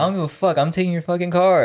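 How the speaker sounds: imitating angry mom. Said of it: "She's like".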